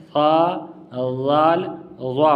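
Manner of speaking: سا and زال as gentle th sounds, no whistle; long, soft tongue-tip سا، زال، وا; soft articulation. Shown as a demonstration. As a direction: ease out each letter, وا thickened. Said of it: "آسانی کے ساتھ نرم".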